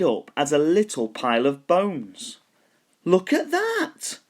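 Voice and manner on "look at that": very high, slow, strange skeleton voice; a startled skeleton staring; big skeleton voice. A narrator's reading. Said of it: "the big skeleton said".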